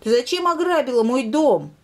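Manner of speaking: high, loud cub voice accusing the lynx; indignant demand. Acted. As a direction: demand an answer from the thief. Bear cub confronts the lynx.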